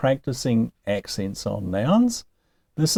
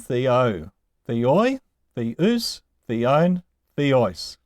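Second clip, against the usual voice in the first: "theo, theoi, theus, theon, theos" with weight on every final syllable; a drilled list, "theo, theoi, theus, theon, theos", end-stressed; stress on last syllable; much slower than usual. Shown as a demonstration. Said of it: "have a circumflex accent".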